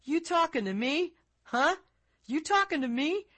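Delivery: high, loud tough-guy challenge; Robert De Niro. Retold or imitated. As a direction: square up like a New York street tough. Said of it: "Robert De Niro turning to face the camera and saying".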